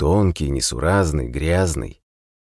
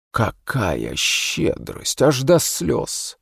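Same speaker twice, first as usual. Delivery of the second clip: sarcastic; 7 semitones higher, much slower than usual. Acted. Prisoner mocks offered food.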